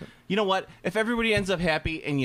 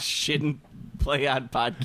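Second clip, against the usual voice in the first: slow careful; slower than usual. Shown as a demonstration. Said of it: "Actually, it's Shin Play on Pod Neo".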